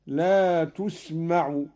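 تسمع opened with u, "tusma'u"; damma on ta. Shown as a demonstration. Teacher showing Qalun's reading, تسمع with u on ت. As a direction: round the ت of تسمع to "tu". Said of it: "قرأ قالون بضم التاء".

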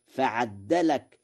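فعدلك with a doubled د; doubled dal. Shown as a demonstration. Teacher showing Warsh's فعدلك. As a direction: read فعدلك as fa-addalak. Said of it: "بتشديد الدال".

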